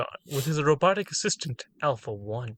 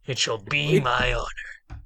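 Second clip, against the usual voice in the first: lightly voiced loyal lieutenant; a new voice for the lieutenant; different character voice; 3 semitones lower than usual. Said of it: "a different one".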